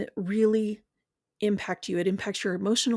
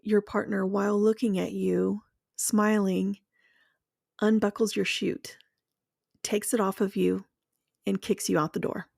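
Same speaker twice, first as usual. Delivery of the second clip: guided visualization. Acted. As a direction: paint the fall for them, one image at a time. Guided imagery of being betrayed.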